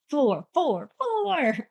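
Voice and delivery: climbing to a high final "four"; excited escalation. Acted. Reviewer showing her rating shooting up, excited and rising. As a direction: raise the pitch with each repeat. Acts rating suddenly jumping up.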